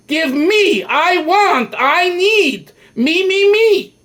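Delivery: rising greedy whine of wanting; greedy animal soul. Acted.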